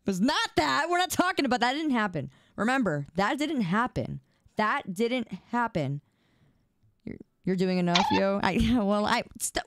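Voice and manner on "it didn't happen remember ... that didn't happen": firm denial. Real, not acted. Firm repeated denial to Nick.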